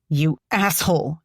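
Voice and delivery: a touch of a furious yell; mild mock scream. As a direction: spit it out, half-screamed. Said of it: "she screams".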